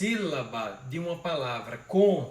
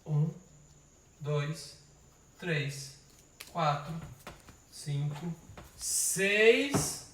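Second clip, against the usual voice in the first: counting syllables; much slower than usual. Shown as a demonstration. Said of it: "vamos ver quantas vai dar".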